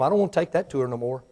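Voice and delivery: quick, soft and unwilling; telling God you're afraid to be guided again. Pretend. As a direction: murmur it like you're backing away. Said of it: "I told Him".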